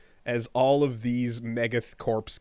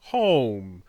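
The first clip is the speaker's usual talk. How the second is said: mock orc; 5 dB louder than usual. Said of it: "says the orcs".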